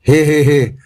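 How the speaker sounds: a light, horse-like neighing chuckle; mild mock horse laugh. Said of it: "घोड़े की मानिंद हिनहिनाकर हंसा".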